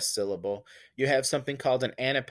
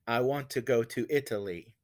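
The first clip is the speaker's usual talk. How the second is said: lighter iambic lilt, rising onto "want" and "go"; iambic beat; 2 semitones lower, 4 dB quieter than usual. Shown as a demonstration. Teacher contrasting it with the witches' chant, iambic beat. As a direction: stress the second syllable of each pair, "want", "go". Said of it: "That's different than".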